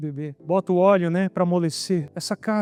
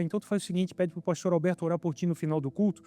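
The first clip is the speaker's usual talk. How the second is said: softer retold voice of a tearful mother; mãe chorosa imitada; 7 dB quieter than usual. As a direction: quote mother gently, well under your preaching level. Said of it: "E ela começou a chorar". (voz baixa de mãe emocionada, imitada)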